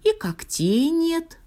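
very high, slow lament; high star voice, regretful and slow; sighing star. A narrator's reading. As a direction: sigh it out high and drawn out. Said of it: "вздохнула звезда".

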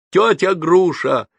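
high, drawn-out shout for help; loud, panicked calling out; frantic yell. A narrator's reading. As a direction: yell at the top of your voice. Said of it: "орал я благим матом".

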